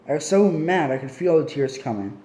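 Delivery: ordinary delivery, nothing marked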